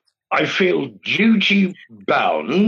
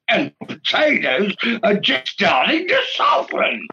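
higher, hammed-up Australian accent with a shouted finish; mock Australian accent; 5 semitones higher than usual. Tony reading a recipe to the panel in mock Australian. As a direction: put on a rough Australian twang, building to a shout. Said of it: "read your passage, please, in Australian".

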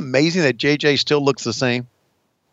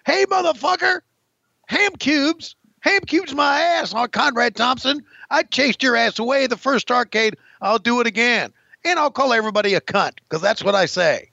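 a brash wrestler voice pitched well higher; Buff Bagwell impression; 6 semitones higher than usual. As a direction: taunt like a cocky heel wrestler cutting a promo. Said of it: "Buff Bagwell's saying".

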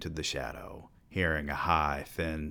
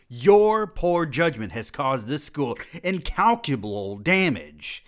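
angry scolding; 5 semitones higher, 5 dB louder than usual. Acted. Angry college president scolding student.

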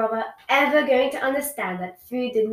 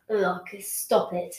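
moan; 3 semitones lower, 3 dB quieter, much slower than usual. Acted. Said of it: "moaned his siblings".

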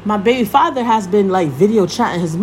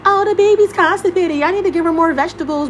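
mocking imitation; 6 semitones higher than usual. Mimics the grandmother's meddling phone call.

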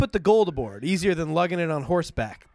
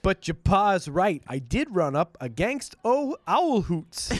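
put-on folksy country accent; 2 semitones higher, slower than usual. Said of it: "a folksy country way of talking".

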